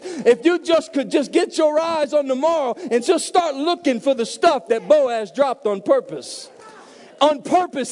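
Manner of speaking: pastor whooping to the congregation; preaching at full force. Acted.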